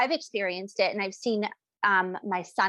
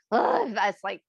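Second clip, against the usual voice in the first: irritated groan; slower than usual. Retold or imitated. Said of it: "your tone is irritable".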